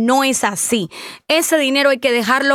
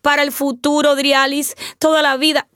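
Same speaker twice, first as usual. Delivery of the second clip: mock whining; 3 semitones higher than usual. Host imitating people who never saved, mock whining. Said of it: "no nos podemos quedar llorando".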